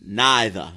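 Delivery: "Neither" said as a diction model, NYE-thuh; careful diction. Shown as a demonstration. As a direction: pronounce "Neither" with long i and dropped r. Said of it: "You have good diction".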